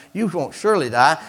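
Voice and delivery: quick, questioning tempter; insistent serpent. Acted. Serpent reassuring the woman, quick and insistent. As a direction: repeat it briskly, lifting the end. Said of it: "the serpent said to the woman".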